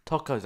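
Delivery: "Tacos" with an open "ah", TAH-kohz; uncertain pronunciation. Shown as a demonstration. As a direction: try "Tacos" with a long open first vowel. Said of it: "I don't know how to pronounce them".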